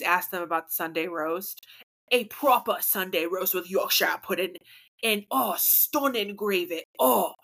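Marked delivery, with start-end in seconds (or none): 2.1-7.3 lightly hammed British foodie; playful put-on British; mock British accent. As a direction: relish it in a fake British accent. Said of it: "talk British".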